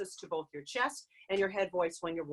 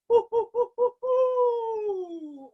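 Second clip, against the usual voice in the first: high hooting owl calls; 12 semitones higher, 4 dB louder, much slower than usual. Shown as a demonstration. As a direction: hoot like an owl in your head voice. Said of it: "You could also imitate an owl".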